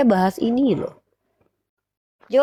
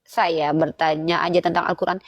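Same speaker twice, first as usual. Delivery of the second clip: mock humble Christian; 6 semitones lower, slower than usual. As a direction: plead meekly as a defeated opponent. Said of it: "kalian tuh jujur aja gitu".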